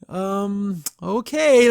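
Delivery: high, drawn-out grudging okay; reluctant agreement. Retold or imitated. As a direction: go along with it, plainly not happy. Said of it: "You can tell he's not happy".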